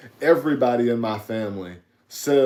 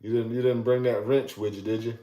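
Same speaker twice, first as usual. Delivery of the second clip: imitating old Southern country talk; lightly done Southern accent; old school Southern; 4 dB quieter than usual. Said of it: "like the old school".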